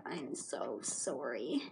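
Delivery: low, slow, hushed sorry; guilty apology. Retold or imitated. Slime's owner to girl with slime in hair, low slow guilty murmur. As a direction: drop right down and draw it out softly.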